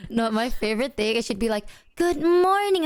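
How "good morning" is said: high, bright sing-song good morning; chirpy wake-up greeting. Retold or imitated. Boyfriend imitating his girlfriend's cheerful wake-up greeting, high sing-song. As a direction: mimic her cheery morning hello.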